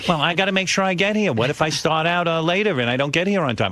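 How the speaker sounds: a hint of a fussing old mom; mother grumbling about the trainer, mildly mimicked; imitating his mother. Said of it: "My mother goes".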